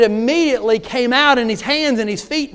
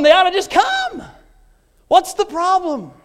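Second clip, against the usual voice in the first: mock indignant churchgoer; 10 semitones higher than usual. Mocking complacent churchgoer, shout.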